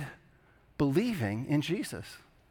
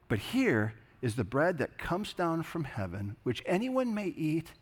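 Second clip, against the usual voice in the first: measured, reverent reading of the gospel; scripture reading. Acted. Pastor reading John six to the congregation, reverent and measured. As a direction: read the passage to the congregation with weight. Reads the gospel passage aloud.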